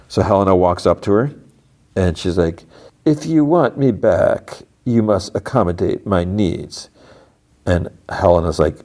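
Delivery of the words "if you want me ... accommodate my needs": slow, deliberate, imperious demand; measured delivery, laying down terms; lightly acted stern executive, taking her time; lightly voiced Cobell. Voices Cobell in a retold scene.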